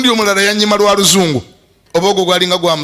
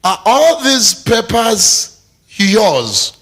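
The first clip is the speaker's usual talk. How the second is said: mock surprise; 6 semitones higher, much slower than usual.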